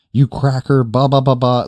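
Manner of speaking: high-pitched mock tirade; imitated angry rant. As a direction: imitate a customer going off on the clerk. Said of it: "just going off on me".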